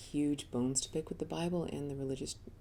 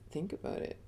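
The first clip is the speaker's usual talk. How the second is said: soft unvoiced inner voice; a quiet nudge from inside; hushed voice of conscience; 5 dB quieter than usual. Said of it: "that other voice went".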